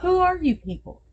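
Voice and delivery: mock disbelief. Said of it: "It was just like".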